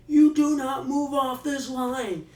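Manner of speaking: high, loud and slow, every word hammered; screaming order. Retold or imitated. Guard screaming at the prisoner to stay on the line. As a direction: lay down the law at a yell. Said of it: "starts screaming and yelling at him".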